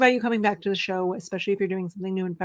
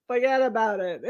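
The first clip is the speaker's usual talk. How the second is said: put-on understated New Jersey Italian accent. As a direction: toss it off as a Jersey Italian, amused. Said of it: "You're like a New Jersey Italian".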